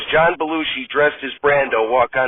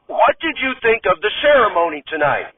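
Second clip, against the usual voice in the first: lightly voiced host; 6 semitones higher than usual. Host interviews Radner.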